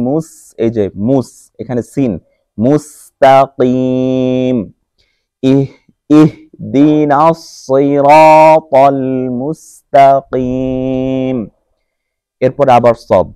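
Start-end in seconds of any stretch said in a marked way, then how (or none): 2.6-11.4 slow, melodic tajweed recitation; Quran recitation. Shown as a demonstration. Teacher reciting to students, slow melodic recitation. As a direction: chant each word slowly and evenly.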